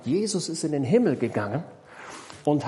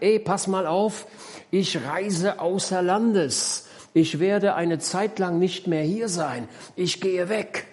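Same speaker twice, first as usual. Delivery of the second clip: lightly voiced master, slow, raised pitch; 5 semitones higher, slower than usual. Master telling his servants he will travel abroad, slow announcement. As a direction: announce it, a bit higher and drawn out.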